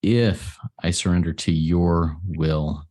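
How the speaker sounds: slow, with IF set apart and stressed; emphatic key words. Shown as a demonstration. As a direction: lean on "if" and "your", slowly. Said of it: "Those are the things that I emphasize".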